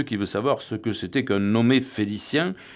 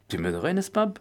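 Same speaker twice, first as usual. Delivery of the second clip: higher, plaintive whimper; 6 semitones higher than usual. Acted. The Bouc begging his friend for help, whimpering. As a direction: plead like a tearful drunk. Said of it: "Pleurnichait le bouc".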